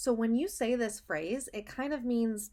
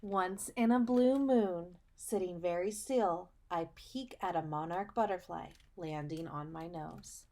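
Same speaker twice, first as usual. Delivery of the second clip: put-on reading to children. Teacher reading a picture book to her students, storybook voice. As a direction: read it like storytime for little kids.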